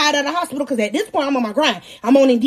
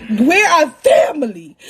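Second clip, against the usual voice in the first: mock shout; 3 dB louder, slower than usual. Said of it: "I'm like".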